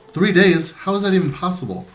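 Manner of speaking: put-on Irish accent absent, pitch jumps high in disbelief; shocked disbelief. A narrator's reading. Girl in hospital stunned how long she slept, rising disbelief. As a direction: gasp out the question in shock. Carmen shocked at three days.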